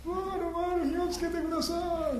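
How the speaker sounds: very high strained pleading, imitated; mock desperate cry. Prophets pleading for fire, hammed-up high cry. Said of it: "もう思いっきり叫んだと思います".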